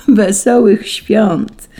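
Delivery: very slow, high, loud greeting; merry, laughing tone. A narrator's reading. Angels merrily returning Saint Peter's greeting, drawn-out joy. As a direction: stretch the greeting out joyfully. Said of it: "zaśmiały się anioły".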